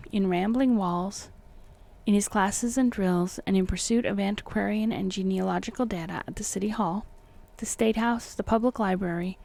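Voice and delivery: measured, formal audiobook reading; deliberate literary narrator delivery; story narration. A narrator's reading. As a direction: read the old tale with careful phrasing. Reads the book aloud.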